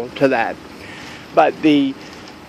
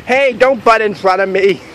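mock yell; 5 semitones higher than usual. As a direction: joke scolding a stranger in line. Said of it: "I yelled".

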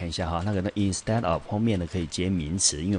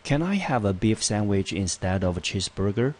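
reading example aloud; 2 semitones higher than usual. Shown as a demonstration. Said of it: "我们来看第一个例句".

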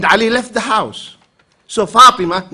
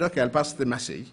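amused reply; 7 semitones lower, 11 dB quieter, faster than usual. Retold or imitated.

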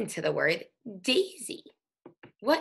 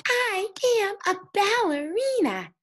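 high, loud cartoon puppy voice; higher, louder puppy voice for Daisy; little dog voice; 12 semitones higher, 5 dB louder than usual. Shown as a demonstration. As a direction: play Daisy as a tiny excited dog. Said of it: "doing a little dog voice like this".

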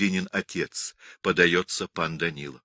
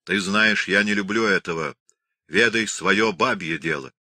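louder, firm and commanding; stern rebuke; 4 dB louder than usual. Acted. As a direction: put her in her place, sternly. Danilo rebukes his wife. (муж строго отчитывает жену)

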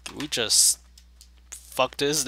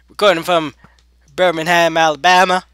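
higher, loud mock announcement; announcer-like put-on voice; 5 semitones higher, 10 dB louder than usual. Player announcing where they record, hammed-up. Continuing the bad impression.

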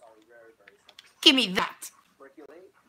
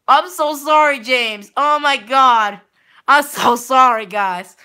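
panicked apology; 5 dB louder, much slower than usual. Real, not acted. Panicked apology after deleting friend.

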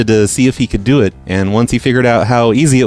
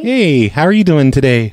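higher, chirpy phone operator voice; prank caller voice; 4 semitones higher than usual. Acted. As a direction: play a cheerful phone company rep.

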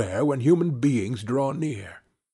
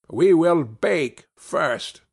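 witch voice; 3 semitones higher, much slower than usual. A narrator's reading. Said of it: "said the old woman".

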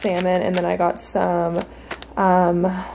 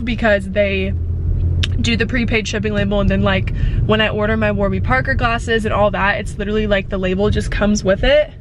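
talking while chewing gum. Real, not acted. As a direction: chew gum as you talk. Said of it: "sorry, I'm chewing gum".

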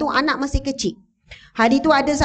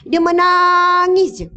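higher, louder and slow, dwelling on "menangis"; emotional emphasis; 5 semitones higher, 4 dB louder, slower than usual. A narrator's reading. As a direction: stretch it out, moved by her tears. Friend's crying, told with feeling. (ditekankan dengan perlahan dan penuh perasaan)

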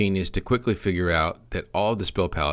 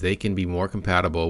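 "can" picked out as the key word; emphasize "can" as a caveat; stress on CAN. Real, not acted. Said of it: "I emphasize the word can here".

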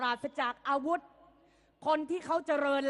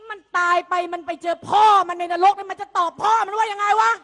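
angry shout; 2 semitones higher, 8 dB louder than usual. Real, not acted. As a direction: hurl the question at him in rising fury. Angry rhetorical attack on opponent. (ตะโกนอย่างโกรธแค้น เสียงดังขึ้นเรื่อยๆ)

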